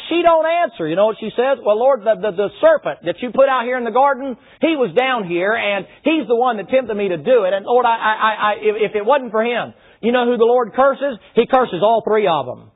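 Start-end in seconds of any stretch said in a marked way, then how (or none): 1.6-9.7 flustered stammering excuse. Acted. Eve stammers, blaming the serpent.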